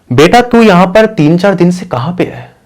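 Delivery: lightly acted mother checking up on her daughter; questioning mother.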